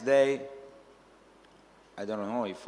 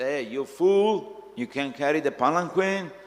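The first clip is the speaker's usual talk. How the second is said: raised, high-pitched mock scolding; upset king; 4 semitones higher, 5 dB louder than usual. A king rebukes his palanquin carrier, upset and loud. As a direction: scold loudly as an indignant king, pitch climbing. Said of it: "Prachinabhari become upset".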